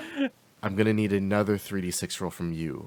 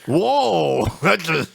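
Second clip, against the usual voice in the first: surprised; 7 semitones higher, 7 dB louder than usual. Real, not acted. Huge egg count surprises him.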